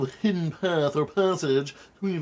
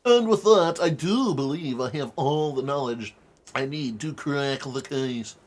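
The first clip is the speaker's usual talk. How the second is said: pompous detective voice. Acted. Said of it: "I wanna slap myself with that pompous voice".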